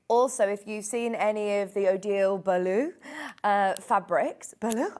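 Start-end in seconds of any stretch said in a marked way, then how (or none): 1.9-2.9 French accent. Real, not acted. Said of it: "said this in my French accent". 4.6-5.0 "Balou" in a French accent, rising questioningly. Real, not acted. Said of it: "said this in my French accent".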